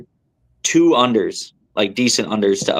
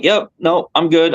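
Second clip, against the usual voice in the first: forced breezy; 6 semitones higher, slower than usual. Retold or imitated. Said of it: "I'm like".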